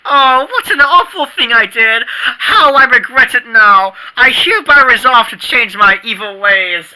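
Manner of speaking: mock remorse, hammed-up and theatrical; hammed-up penitent sinner. Boy fakes remorse to fool his friend, hammed-up. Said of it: "My penitent sinner stick needs work".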